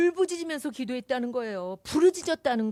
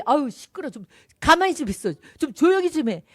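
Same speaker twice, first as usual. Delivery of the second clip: mock scolding; 4 dB louder than usual. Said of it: "막 꾸짖은 거죠".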